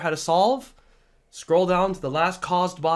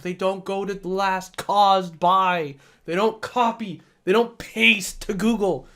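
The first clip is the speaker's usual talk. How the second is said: exasperated teacher's rant; fed up, stressing each failing; frustrated; 3 semitones higher than usual. Real, not acted. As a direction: drag out the key words in frustration. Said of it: "I get frustrated because".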